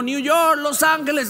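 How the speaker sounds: high announcing call; mock airport call; calling out flights. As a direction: call the flights out over the crowd.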